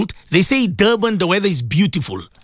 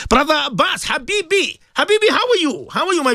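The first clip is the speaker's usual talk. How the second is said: delighted greeting; 10 semitones higher than usual. Real, not acted. Host greets a caller.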